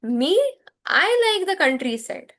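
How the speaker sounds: "Me" set apart, then "I" pitched high; emphasis on ME. Shown as a demonstration. French teacher showing emphasis on the pronoun, stressed "Me". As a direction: lean on "Me", pause, lift "I". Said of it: "but I am giving emphasis".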